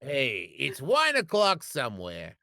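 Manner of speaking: a hint of a tipsy wine mom; lightly voiced wine mom, a bit sloshed. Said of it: "Let me try again".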